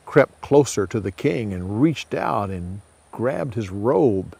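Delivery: usual speaking voice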